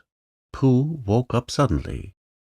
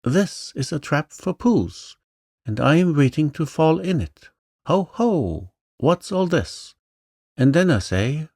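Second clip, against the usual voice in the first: much higher, rushed squeaky voice; quick and squeaky; 8 semitones higher than usual. A narrator's reading. Flustered Piglet explaining a trap, squeaky and quick. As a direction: gabble it out in a panic. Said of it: "said very quickly and squeakily".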